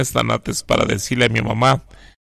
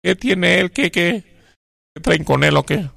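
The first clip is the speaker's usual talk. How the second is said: angry mother; 6 semitones higher than usual. Retold or imitated.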